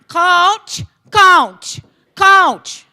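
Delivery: put-on high, loud whiny kid calling coach again and again. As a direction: call for the coach like a whining little boy. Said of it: "he sounds like Caillou".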